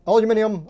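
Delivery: "aluminium" said al-yoo-MIN-ee-um; "aluminium" with "lyoo" and full "ee-um" ending; British pronunciation. Shown as a demonstration. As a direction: put a y-glide in "aluminium", al-YOO. Trying variant pronunciations of one word.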